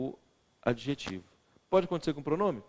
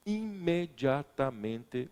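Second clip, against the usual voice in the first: imediatamente said very slowly; drawn out; much slower than usual. Shown as a demonstration. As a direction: stretch every syllable of imediatamente. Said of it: "olha o que eu acabei de fazer".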